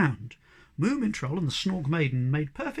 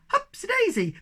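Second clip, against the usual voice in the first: high, gleeful cry much higher; excited cry; 3 dB louder than usual. Acted. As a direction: whoop it as you leap. Sniff jumping onto a cloud.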